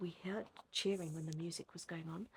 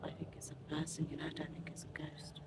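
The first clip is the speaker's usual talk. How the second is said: hushed nervous whisper; barely voiced, wary whisper; 7 dB quieter than usual. Real, not acted. Scared whisper in dark ruins.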